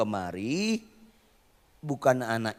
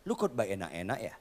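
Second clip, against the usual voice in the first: God whispering; 6 dB quieter than usual. Retold or imitated. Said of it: "Tuhan bisikin saya".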